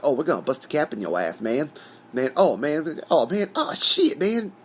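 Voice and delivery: hammed-up imitation of stereotyped African-American movie twins; mock stereotypical African-American voice. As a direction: start level, climb into high-pitched mock African-American exclaiming. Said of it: "stereotypical African-American guys".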